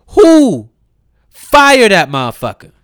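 loud, high burst of outrage; explode, demanding to know who did it; outraged shout. Real, not acted. Outraged demand to fire the ad's maker.

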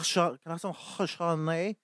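put-on pretentious French accent with throaty, raspy consonants; mock French accent. Customer ordering Chardonnay from a bartender, mock French accent. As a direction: ham up a French pronunciation of Chardonnay. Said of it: "that French accent".

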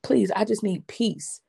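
slow, understated plea; a touch of begging, drawn out; retold begging. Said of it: "please, begging him".

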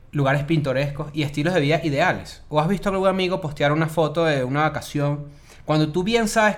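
even, deliberate presenter reading; podcast script read aloud; scripted explainer read. Acted. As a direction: read the intro with measured pauses. Reads the topic explanation.

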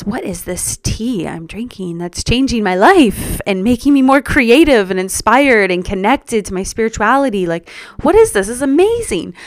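building amazement at a discovery; lively retold excitement; excited wonder.

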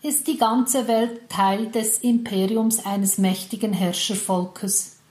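slow, solemn fairy-tale opening; epic fantasy narrator. Acted. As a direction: unfold it like a legend's prologue. Epic story opening with music.

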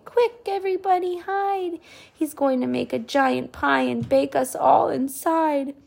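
put-on high, urgent little boy; panicked boy voice. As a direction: hurry everyone away in fright. Boy's voice continues.

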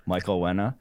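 "Wenna" with w for the r, said laughing; "Michael Wenna" with a childlike w for r; says w for r. Shown as a demonstration. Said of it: "couldn't pronounce my R's".

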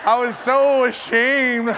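slow words through laughter; laughing. Real, not acted. Pastor telling his church the embarrassing story, laughing through. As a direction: laugh at your own shame.

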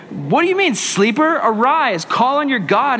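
a hint of an exasperated captain; indignant captain. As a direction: read it as a captain rousing a sleeper. Acting out captain confronting Jonah.

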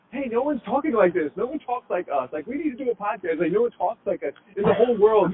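mildly impassioned mock outburst, voice lifted; passionate. Podcaster quoting the two hosts' own zeal, mildly passionate. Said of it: "we're so passionate that we say".

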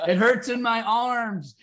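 high whimpering Michael hurting; mock heartbroken whine. Heartbroken Michael on the floor, whining high. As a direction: whine it up high, hammed-up hurt.

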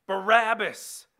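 high, loud, drawn-out cry; crowd's shouted answer. A narrator's reading. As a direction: shout the name back slowly as one crowd. Crowd answers the governor's question.

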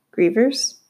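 "Grievers?" asked with a puzzled upward lift; a boy repeats "Grievers?" he has never heard; confused question. A narrator's reading. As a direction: echo "Grievers?" back, baffled and rising. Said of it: "only getting more and more confused".

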